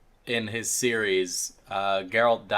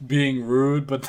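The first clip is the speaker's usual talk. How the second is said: cheeks stuffed full; 2 semitones higher than usual. Real, not acted. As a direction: mouth full of food. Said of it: "I keep eating with my mouth full".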